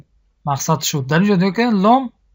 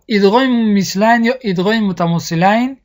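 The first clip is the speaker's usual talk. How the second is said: whisper. Acted. Teacher whispers the topic name.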